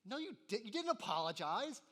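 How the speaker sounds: scolding mom. Retold or imitated. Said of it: "your mom's like".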